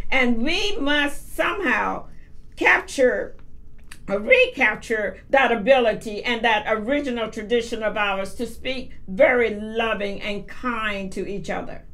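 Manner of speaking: ordinary talk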